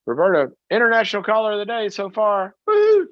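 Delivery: high, fast celebratory shout-out; excited hype. Real, not acted. Radio host welcoming caller, excited cheer.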